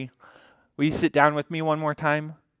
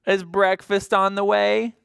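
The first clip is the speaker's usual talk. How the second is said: hungry horse calling; 6 semitones higher, 5 dB louder than usual. Acted. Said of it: "he calls to the farmer".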